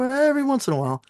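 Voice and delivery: squeaky high, innocent "Every once in a while"; coy, innocent. Retold or imitated. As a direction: act innocent, like it's nothing. Downplaying his drinking to doctor.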